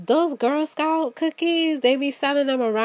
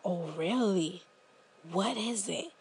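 hushed curious reply; 7 semitones lower, 12 dB quieter than usual. Retold or imitated. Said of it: "And you be like".

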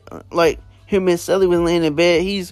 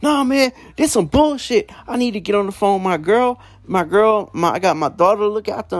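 higher-pitched mock indignant protest; imitated angry griping, pitch raised; retold pissed off; 4 semitones higher than usual. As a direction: act out a fed-up roommate complaining. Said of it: "starts getting all pissed off".

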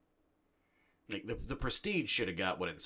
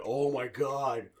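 loud, high, drawn-out gushing; hammed-up awestruck movie fan; mock rapture, louder and higher; gushing fanboy; 6 semitones higher, 7 dB louder, slower than usual. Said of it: "I'm supposed to be like".

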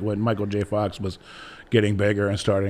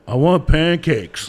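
slow, drawn-out whine a bit higher; stubborn whiny demand; 4 semitones higher, 4 dB louder, much slower than usual. Retold or imitated. Retelling a Fargo scene to a friend, slow sulky whine. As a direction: drag out the want like a sulking kid. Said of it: "And he's like".

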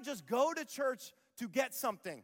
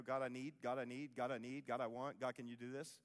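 needy prayer; 9 semitones lower, 9 dB quieter than usual. Retold or imitated. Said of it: "when I go".

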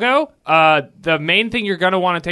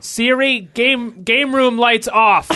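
voice command; 6 semitones higher, slower than usual. Shown as a demonstration. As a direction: call it out to the smart speaker. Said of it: "instruction you give to Siri".

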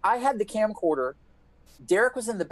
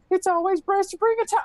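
much higher, sing-song know-it-all voice; smug friend; 14 semitones higher than usual. Retold or imitated. Mocking David's high, preachy towel advice in the car. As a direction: lecture him like a wise guru. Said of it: "you're like".

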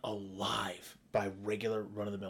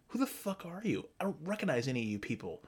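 ranting; 4 semitones higher than usual. Retold or imitated. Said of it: "I'm like".

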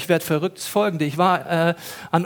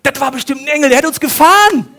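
higher and louder, laughing; 6 semitones higher, 7 dB louder than usual. Real, not acted. Mocking themselves to the congregation, laughing. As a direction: let the laugh break through. Realising it was an angel.

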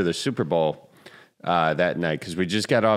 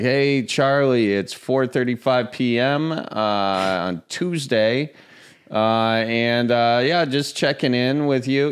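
slow, slightly higher voicemail voice; buddy Gary's voicemail; 5 semitones higher, slower than usual. Retold or imitated. Imitating friend Gary leaving a slow, dragged-out voicemail. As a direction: draw it out like a formal message. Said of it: "he'll be like".

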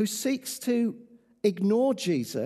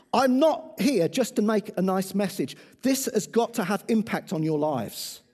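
rally speech; 4 dB louder than usual. Acted. Urgent appeal to congregation.

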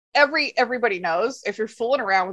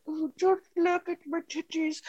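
bad French accent; 6 semitones higher, 6 dB quieter than usual. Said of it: "The terrible French accent".

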